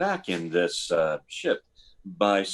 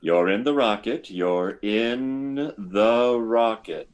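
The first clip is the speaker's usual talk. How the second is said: hypnotic suggestion. Acted.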